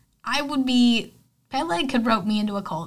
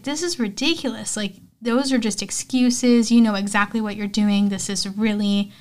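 retold exasperated complaint, emphatic; mildly fed up, stretching out key words; arguing; 4 dB louder than usual. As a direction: act out an indignant protest. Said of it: "the two of them start arguing".

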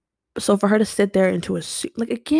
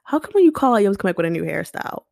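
mimicking a coworker's sing-song gotcha question; nosy coworker. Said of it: "one of the girls working there was like".

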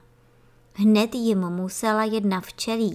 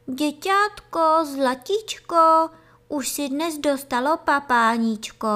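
cooing bee; 6 semitones higher, 5 dB louder than usual. A narrator's reading. Bee calling to a baby in the cell. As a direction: call sweetly into the cell. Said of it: "volala do komůrky".

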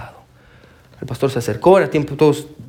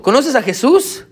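gentle pastor question; 8 semitones higher, slower than usual. Retold or imitated. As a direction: ask kindly as the pastor. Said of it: "le dijo". (el pastor pregunta con dulzura, agudo y lento)

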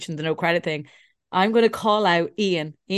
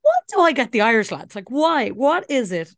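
louder, higher mock despair; exasperated complaint; 5 semitones higher, 5 dB louder than usual. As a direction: whine it in comic exasperation. Retold exasperation at Irish suitors.

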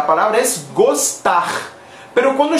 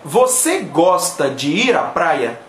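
slow model phrase; 4 semitones lower than usual. Shown as a demonstration. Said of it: "contéstenme la pregunta".

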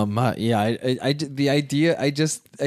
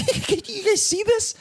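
showman voice. Retold or imitated. Entertaining the class as kid.

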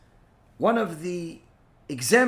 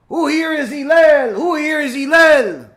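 loud, high taunting shout; mock screaming; 7 semitones higher, 8 dB louder than usual. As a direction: yell it out to provoke him. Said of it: "starts screaming".

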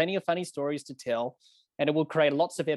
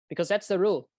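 put-on South African accent; 3 semitones higher than usual. Umpire telling the captain the rule, imitated South African accent. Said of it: "That's my best South African accent there".

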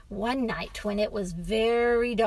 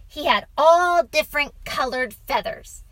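put-on high, loud little-boy voice; young boy; 6 semitones higher, 9 dB louder than usual. A narrator's reading. Boy explains the name to father, eager. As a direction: explain it eagerly in a child's pitch. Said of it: "said the boy".

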